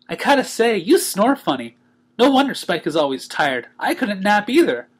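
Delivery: high playful pony voice; teasing and chirpy; Pinkie Pie voice. Acted. Pinkie teases Twilight.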